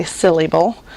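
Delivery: syllable said as sil-lay-bull; syllable with the middle sounded out as lay; wrong pronunciation. Shown as a demonstration. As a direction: misread syllable with a full middle vowel. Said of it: "We don't say syllable".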